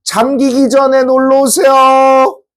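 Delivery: high, slow promotional call; drawn-out, high-pitched pitch to visitors; tourism office announcer. Retold or imitated. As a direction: hawk it like a mock tourism advert. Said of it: "투발루 관광청에서 이렇게 얘기해".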